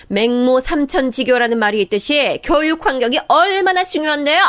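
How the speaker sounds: sister-in-law shouting at mother-in-law; shrill sarcastic yelling. Acted. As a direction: snap back with scornful sarcasm. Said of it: "바락바락 소리 지르더군요".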